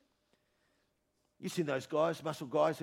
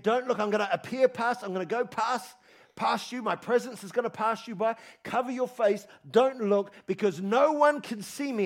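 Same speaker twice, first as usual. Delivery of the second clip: God's warning, a little higher and louder; 3 semitones higher, 4 dB louder than usual. Pretend. Preacher voicing God warning Moses, raised. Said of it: "it says in Exodus thirty-three".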